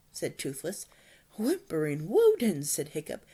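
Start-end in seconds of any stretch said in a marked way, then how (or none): 1.4-2.6 loud astonished cry; amazed exclamation. Acted. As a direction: exclaim in shock.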